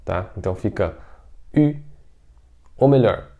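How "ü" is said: "ü" as "i" with pursed lips; Mandarin ü. Shown as a demonstration. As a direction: say "i" with rounded lips. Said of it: "com biquinho". ("ü" com biquinho)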